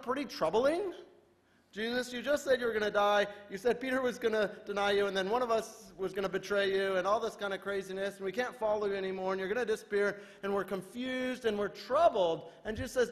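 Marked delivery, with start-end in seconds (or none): 1.7-12.5 higher, anxious listing of troubles; worried disciples. Retold or imitated. Disciples protest to Jesus, mild anxious higher voice. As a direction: complain like a confused follower.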